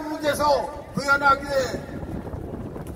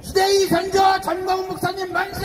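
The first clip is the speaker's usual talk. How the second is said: rally cheer; 3 semitones higher than usual. Real, not acted. Leading crowd in cheers.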